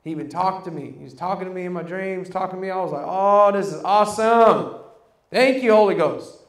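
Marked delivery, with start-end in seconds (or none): 3.1-6.4 loud, thankful exclamation; awed gratitude, projected; retold delight. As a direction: marvel out loud and give thanks. Retells delight at God talking.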